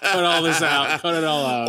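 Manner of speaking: flat robot voice. Pretend. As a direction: speak like a robot. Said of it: "doing a robot voice?".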